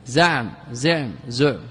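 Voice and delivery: زعم said slowly three times: za'm, zu'm, zi'm; zaa, zuu, zii on زعم, slow and careful; three vowel forms. Shown as a demonstration. Teacher reading out the three dictionary vowelings of زعم. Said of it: "بتثليث الزاي".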